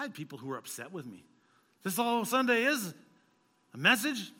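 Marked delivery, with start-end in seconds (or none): 1.8-4.3 indignant disbelief. Retold or imitated. Upset congregants complaining.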